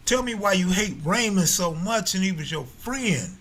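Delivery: exasperated demand. Real, not acted. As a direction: push him to tell the real story. Pleading with author for stories.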